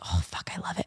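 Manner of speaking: low, hushed near-whisper; mock-breathless whisper of love for the bag; retold whisper. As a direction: whisper it like it's a guilty secret.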